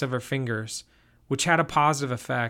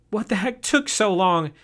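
higher, sharp angry question; 7 semitones higher, 4 dB louder than usual. A narrator's reading. Josie scolds the returning searchers, higher and angry. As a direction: snap at him for being so late. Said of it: "Josie asked angrily".

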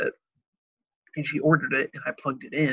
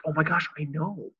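imitating Josh; 2 semitones higher, 3 dB quieter than usual. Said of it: "that's just how he talks".

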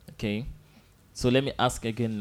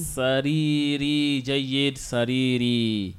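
slow teaching model; slower than usual. Shown as a demonstration. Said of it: "How do I say that?".

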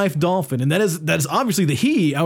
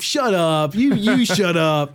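slow, drawn-out comeback; mock little-brother defiance; retold sulky rebuff; slower than usual. Acting a younger brother rebuffing teasing.

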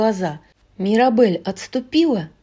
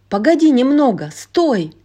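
calling out; 4 semitones higher, 5 dB louder than usual. Acted. Mirabel calls after her sister.

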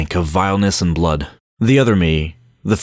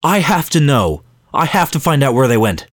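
desperate; 6 semitones higher than usual. A narrator's reading. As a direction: beg for the answer you must have.

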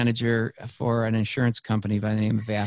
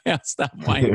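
laughing through the words; amused echo of his own vow; laughing repeat; 3 semitones higher than usual. Shown as a demonstration. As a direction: repeat it with a chuckle.

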